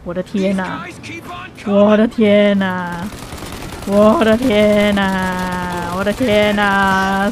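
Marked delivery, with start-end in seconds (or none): 1.7-7.3 slow, stretched-out exclamation; drawn-out oh my god. Real, not acted. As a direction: drag each word out in disbelief. Repeated amazement during chase.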